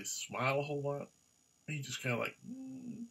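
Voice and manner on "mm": teddy bear voice. Pretend.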